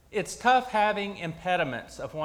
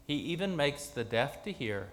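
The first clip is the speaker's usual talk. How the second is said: scripture reading. Acted. Reads the gospel lesson aloud.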